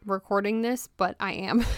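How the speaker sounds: breathless, catching her breath; talking while winded. Real, not acted. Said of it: "I'm so out of breath right now".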